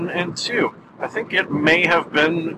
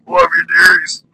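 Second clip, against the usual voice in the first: sweet granny voice; 2 semitones higher, 4 dB louder than usual. Acted. Sign-off in put-on voice.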